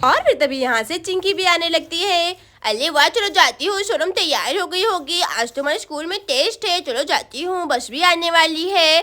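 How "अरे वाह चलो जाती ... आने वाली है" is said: lightly voiced lisping schoolgirl; sing-song child chatter, only slightly put on; lightly voiced Chinki. Girl off to fetch her friend for school, light child voice.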